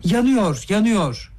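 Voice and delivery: high-pitched, contained shout; shouting in alarm. A narrator's reading. Everyone rushes at the burning money, shouting. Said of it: "bir ağızdan bağırdı".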